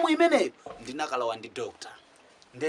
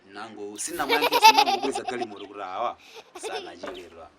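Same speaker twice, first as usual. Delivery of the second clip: laughing while talking; 7 semitones lower than usual. Real, not acted. Laughing through the punchline.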